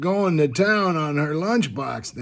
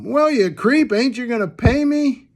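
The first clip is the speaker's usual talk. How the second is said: higher-pitched, mildly hammed-up yell; retold mock yell; 5 semitones higher than usual. Woman yells at koala walking out unpaid, mock scream. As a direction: play at hollering after someone for payment. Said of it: "she screams at him".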